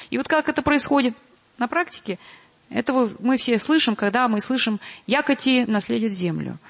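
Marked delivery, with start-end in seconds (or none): 5.1-6.6 "якоти" as one word, stressed on the first syllable; words run together. Shown as a demonstration. Teacher mimics careless church readers, words run together. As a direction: merge "яко тии" into "якоти", stress on ya. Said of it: "Вот это вот такая опасность".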